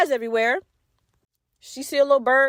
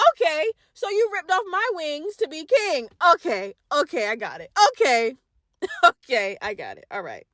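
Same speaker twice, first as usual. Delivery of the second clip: quiet seething; 2 semitones higher, 3 dB quieter than usual. Retold or imitated. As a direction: let it sink to a quiet, dangerous calm. Seething after the news.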